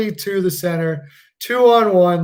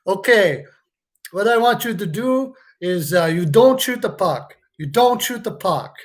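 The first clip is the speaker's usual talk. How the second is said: mock French-Canadian coach, lightly put on; hammed-up French accent giving a pep talk; terrible French accent. Fan mocking the coach's game plan in a bad French accent. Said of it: "Terrible French accent".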